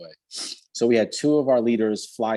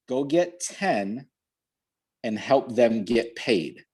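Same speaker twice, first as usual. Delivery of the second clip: slow emphatic coaching; slower than usual. Real, not acted. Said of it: "coaching slowly for emphasis".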